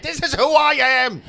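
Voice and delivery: put-on cutesy baby voice. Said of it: "Did you say it in a baby voice".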